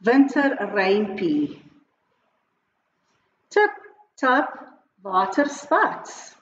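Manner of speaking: put-on measured line-by-line children's poem; teacher modelling a rhyme in short, separated phrases; poem read for repeating. Shown as a demonstration. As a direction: read out each phrase for learners to echo, leaving pauses. Reads poem for pupils to repeat.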